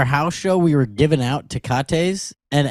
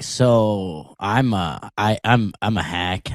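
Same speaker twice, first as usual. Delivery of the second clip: dejected self-doubt; 7 semitones lower, 5 dB quieter than usual. Acted. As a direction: sink into a defeated, quieter voice. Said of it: "you leave very angry and frustrated".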